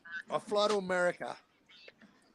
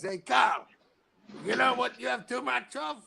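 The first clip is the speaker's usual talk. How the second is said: imitating LT; 8 semitones higher, 8 dB louder than usual. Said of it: "L T goes".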